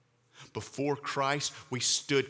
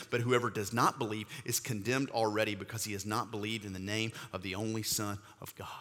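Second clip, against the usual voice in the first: scripture reading; 2 semitones lower than usual. Acted. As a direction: let the verse settle down to a hush. Reads John three sixteen.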